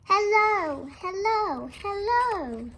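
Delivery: high, loud sing-song hello calls; calling out. Acted. Teacher voicing the sea calling to the lighthouse, high loud calls. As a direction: call across the sea to the lighthouse.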